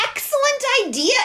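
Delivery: high, fast, eager cry; excited exclamation. A narrator's reading. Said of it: "exclaimed Duck".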